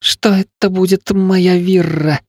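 put-on a touch of a sob in the boy; sobbing boy. The son sobs to his father while his foot hurts. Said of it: "всхлипнул Михаль".

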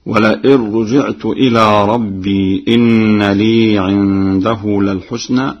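slow chant, ربي with silent ya; Quran recitation. Shown as a demonstration. Hafs reading before Warsh. (تلاوة بإسكان ياء ربي)

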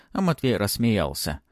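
plain reading voice

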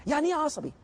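إيه asked high, as a pointed challenge; high probing question. Shown as a demonstration. Teacher challenging students, high pointed question. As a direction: lift إيه high to make them think. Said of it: "فكر فيها".

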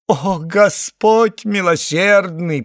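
slow, high, loud theatrical appeal to God; pathetic invocation. A narrator's reading. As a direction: cry out to heaven with pathos. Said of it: "патетически воззвало".

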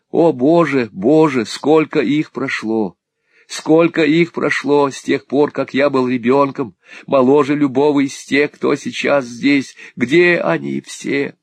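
high, loud, slow lament; a broken boy wailing, drawn out; Smike's anguish. A narrator's reading. Smike laments lost years. (Смайк причитает: высоко, громко, медленно)

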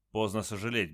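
plain reading voice

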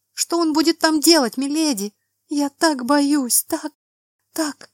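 high, rising panic, near tears; terrified pleading. Acted. Frightened girl pleads, hysterical.

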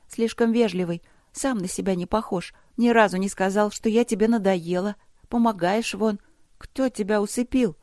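put-on high, pert girl's voice; suspicious young princess. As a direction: pester him as an inquisitive little girl. (въедливая девочка, высоким голосом)

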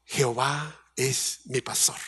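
quiet and slow, "Jehová es mi pastor" said softly; reverent quote. Shown as a demonstration. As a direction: breathe "Jehová es mi pastor" gently and unhurried. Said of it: "Por eso". (cita reverente, baja y lenta)

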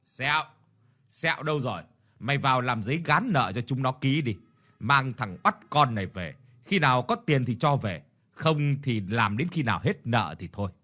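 a touch of a harsh order to a henchman; barking orders. Acted. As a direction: bark the commands curtly. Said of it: "Bá hộ Chiến quát".

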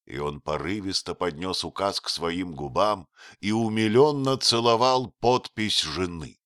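usual speaking voice

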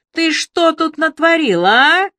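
high, loud furious hiss; loud angry hiss at the drunk. A narrator's reading. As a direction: spit it at him without breathing in. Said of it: "громко прошипела она".

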